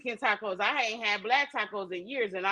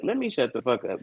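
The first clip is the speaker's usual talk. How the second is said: laughing; 10 semitones lower than usual. Real, not acted. Laughs at own question.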